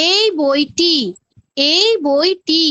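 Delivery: এই picked out firmly, then বইটি; deliberate teacher's emphasis on এই; stress on এই. Shown as a demonstration. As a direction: point out the exact one by leaning on এই. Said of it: "এই নির্দিষ্ট বইটি".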